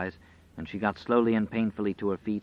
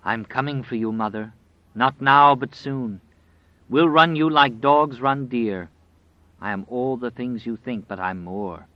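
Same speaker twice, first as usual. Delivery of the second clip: menacing dark voice; 2 semitones higher, 4 dB louder than usual. Acted. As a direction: taunt her like a predator. Dark man taunting an old woman.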